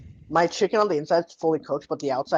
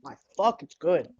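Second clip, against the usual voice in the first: mouth full. Real, not acted. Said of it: "you'll probably hear me eating this entire time".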